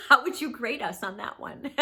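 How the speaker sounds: laughing through a teasing question. Real, not acted. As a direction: ask it with a real laugh, teasing. Laughing at her own question.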